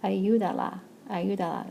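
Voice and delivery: "Ayúdala" with the stress on YÚ; stress on accented syllable. Shown as a demonstration. Spanish teacher showing where the accent goes, "Ayúdala" stressed on YÚ. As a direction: say "Ayúdala" as one word, leaning on YÚ. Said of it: "Here's where my accent mark goes".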